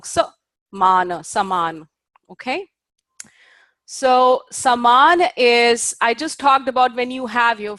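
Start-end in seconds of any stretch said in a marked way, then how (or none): 0.0-1.9 "Sa" kept short, then "mana" held long; short and long vowels. Shown as a demonstration. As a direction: split "saman" into a short and a long beat. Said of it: "a short and a long".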